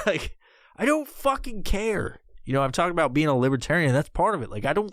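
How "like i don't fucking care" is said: laughing. Real, not acted. Laughing after the rant.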